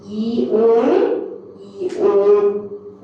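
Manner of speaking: long, held vowels; slow model pronunciation of vowels; drawn-out vowel demo. Shown as a demonstration. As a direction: stretch each vowel slowly for learners. Teacher demonstrates vowel sounds.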